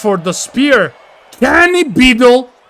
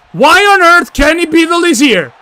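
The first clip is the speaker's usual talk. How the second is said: higher, louder, outraged cry; stunned shout of disbelief; shocked shout; 6 semitones higher, 3 dB louder than usual. Real, not acted. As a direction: yell it in disbelief at the ring. Shocked at interference in match.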